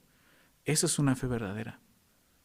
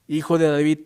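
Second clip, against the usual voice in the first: calling out; 6 dB louder than usual. Retold or imitated. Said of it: "él clamaba mucho más".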